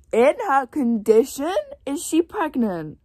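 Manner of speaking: high, slow, disbelieving questions; shocked gasp. Real, not acted. Reader reacting to the news, stunned and slow. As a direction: gasp it out like you can't believe it. Gasping at book revelation.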